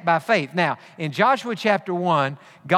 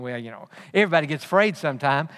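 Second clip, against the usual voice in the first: quick, lower, offhand excuse; shrugging excuse; 4 semitones lower, faster than usual. Retold or imitated. Preacher mimicking the congregation's excuse, offhand and quick. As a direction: brush it off fast, a bit lower. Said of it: "And we think".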